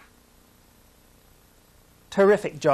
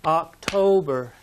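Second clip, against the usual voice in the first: October slow, second syllable stressed; oc-TO-ber, slow; slower than usual. Shown as a demonstration. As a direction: lean on the to of October. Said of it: "the stress is on the second syllable".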